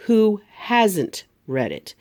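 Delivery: slow, hasn't with a clear T; hasn't said slowly, T hit; hasn't, HAZ-ent, crisp T; careful T. Shown as a demonstration. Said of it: "be careful of our accent".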